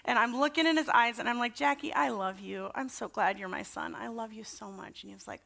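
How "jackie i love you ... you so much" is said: soft bedtime reassurance, fading quieter; tender, retold. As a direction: re-enact softly reassuring a small son. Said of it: "had this sweet little moment".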